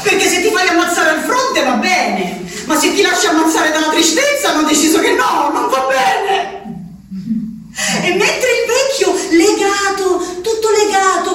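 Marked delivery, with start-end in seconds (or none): 2.7-6.6 angry outburst. Acted. Patient rails at the doctors who forbid dying of sorrow, angry shout. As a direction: spit the last words out in fury.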